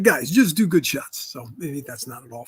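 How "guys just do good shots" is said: put-on Boris's Russian accent. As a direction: mimic a blunt Russian film professor, lightly. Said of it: "he talked like this".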